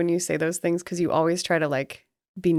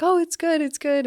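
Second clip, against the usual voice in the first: retold chirpy reply; 12 semitones higher, 3 dB louder than usual. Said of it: "I was like".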